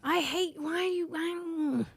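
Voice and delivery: high, soft whine; pained whine. Real, not acted. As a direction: whine it out in dismay. Groaning after reading a bad comment.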